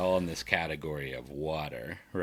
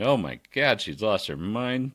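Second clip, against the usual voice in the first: higher, louder mock-alarmed dog; 4 semitones higher, 3 dB louder than usual. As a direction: voice the startled dog, hammed-up. Voicing the dog watching owner.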